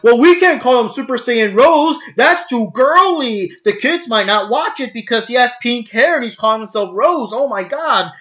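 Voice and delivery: lightly voiced fretting dub executive; mock dub executive. Dub maker talking colleagues out of a girly name, mocking.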